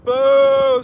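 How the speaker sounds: drawn-out jeer; loud boo. Real, not acted. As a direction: boo from the crowd. Heckling at protest.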